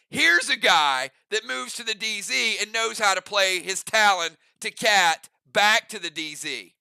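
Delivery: grand football commentator voice; sports announcer. Acted. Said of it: "like, an announcer voice".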